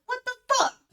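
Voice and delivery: sudden jolt of surprise; shocked disbelief. Retold or imitated. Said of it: "I'm like".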